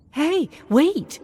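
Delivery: high, loud call after someone walking away. Acted. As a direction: shout to stop the robot. Calling after the Hux unit.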